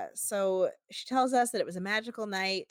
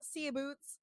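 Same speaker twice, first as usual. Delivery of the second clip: high, sing-song bartender voice; sugary send-off, pitched up; sweet flirty voice; 5 semitones higher than usual. Retold or imitated. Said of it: "she goes".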